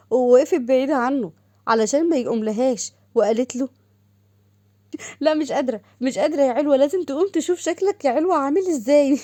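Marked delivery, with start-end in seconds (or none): 5.2-9.2 higher-pitched gleeful mocking; teasing amusement. Sister mocking the brother she just scared, high and amused. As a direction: tease him as if helpless with laughter.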